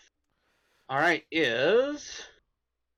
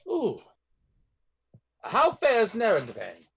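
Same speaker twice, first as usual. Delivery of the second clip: put-on higher, slow British-accented question; 4 semitones higher, slower than usual. Prisoner asking a surface dweller for news, higher slow British accent. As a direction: ask it with drawn-out British relish. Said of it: "British accent".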